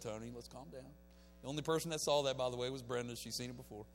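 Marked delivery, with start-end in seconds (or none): 0.0-0.9 calming inner voice. Retold or imitated. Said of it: "the Holy Spirit just kinda got a hold of me".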